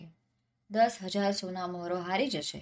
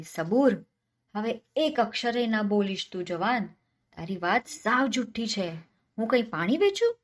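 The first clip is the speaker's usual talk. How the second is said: louder, higher furious landlord; angry shout; 3 semitones higher, 4 dB louder than usual. Acted. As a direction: yell him into silence. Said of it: "એણે બૂમ પાડી".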